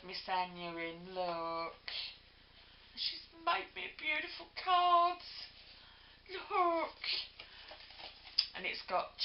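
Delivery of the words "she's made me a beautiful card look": excited. Real, not acted. Showing the handmade card to viewers.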